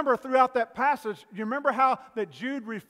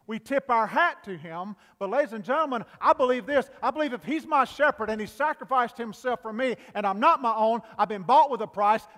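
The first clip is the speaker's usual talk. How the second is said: rising preaching fervor; 3 semitones higher, 6 dB louder than usual. Real, not acted.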